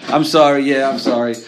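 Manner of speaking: loud, dismissive sorry; insincere apology. Retold or imitated. Husband fobbing off his angry wife, loud insincere sorry. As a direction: apologise only to end the row. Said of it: "leave me alone sort of fine".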